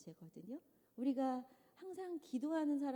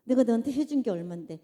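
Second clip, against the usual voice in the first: louder, indignant demand for credit; resentful complaint; 11 dB louder than usual. Shown as a demonstration. Preacher mimicking a resentful giver, loud and indignant. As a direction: throw the favors back in their face. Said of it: "이거 사랑 같아요".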